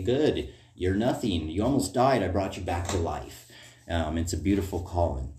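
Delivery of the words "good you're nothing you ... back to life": voicing God. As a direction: speak as God lifting up the sinner, with mild emphasis. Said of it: "he can say".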